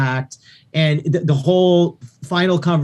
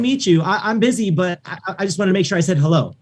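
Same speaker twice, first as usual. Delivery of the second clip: friendly greeting; 4 semitones higher than usual. Shown as a demonstration. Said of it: "and just say".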